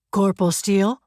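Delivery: lightly voiced booming sergeant; a touch of commanding boom. A narrator's reading. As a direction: call out like a sergeant, mildly booming. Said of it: "Sergeant John Bisson's booming voice".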